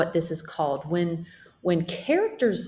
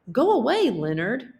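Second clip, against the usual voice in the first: sharp raised call of go away; shooing away; 5 semitones higher, 4 dB louder than usual. Acted. Illustrator shooing her brother Leonard away, raised voice. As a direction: call out, higher and louder, shooing him off.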